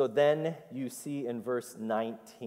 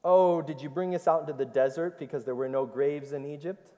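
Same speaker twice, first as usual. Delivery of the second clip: sarcastic; 3 semitones higher, faster than usual. Retold or imitated. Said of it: "Clever stuff, huh?".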